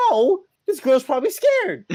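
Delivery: high-pitched, loud motherly objection; imitated rebuke. Mom rejects dad's joke excuse, imitated loud rebuke. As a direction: cut off the excuse with a mock yell.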